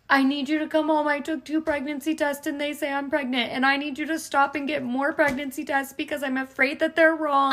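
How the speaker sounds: imitating herself crying to her husband on the phone; retold crying plea. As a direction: replay the panicked phone call, half laughing at the end. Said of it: "I'm crying".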